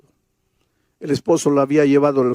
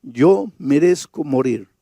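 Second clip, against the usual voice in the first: tearful; slower than usual. Retold or imitated. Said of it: "comenzó a llorar y me dice".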